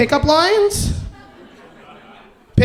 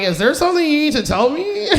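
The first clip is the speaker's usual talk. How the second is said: higher, pointed question through a laugh; raised-eyebrow suspicion with a laugh; suspicious tease; 4 semitones higher than usual. Retold or imitated. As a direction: ask it knowingly, half laughing. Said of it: "I'm like".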